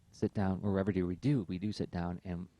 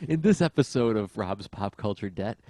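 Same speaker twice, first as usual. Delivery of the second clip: podcast announcer; 5 dB louder than usual. Pretend. Mock show announcer intro.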